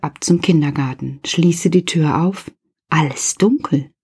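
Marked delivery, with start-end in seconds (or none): 2.9-3.9 hushed whisper, dark room; whispered suspense. A narrator's reading. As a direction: whisper it like you are afraid of the dark. (geflüstert, ängstlich-gespannt)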